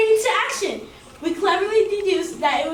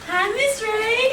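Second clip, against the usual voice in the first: slow greeting; 4 semitones higher, much slower than usual. Acted. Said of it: "and go".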